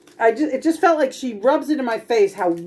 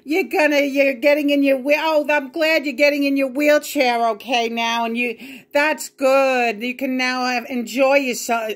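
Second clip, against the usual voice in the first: higher, sing-song mimicry of the mother; mocking mother; 5 semitones higher than usual. Daughter mimicking her mother's fake cheer. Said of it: "she acts like she doesn't know".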